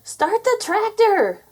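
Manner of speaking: high, loud, drawn-out command; urgent yell. A narrator's reading. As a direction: yell it in a panic to get away. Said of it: "yelled Minnie".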